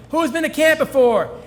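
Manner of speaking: put-on loud, high call to a busload of kids. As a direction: shout the question to the whole bus, bright and high. Driver calling out to bus kids.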